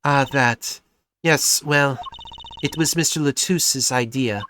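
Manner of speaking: put-on lightly European-accented singer; hint of a European accent; vague European accent. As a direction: speak carefully in a loose European accent. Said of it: "vaguely European accent".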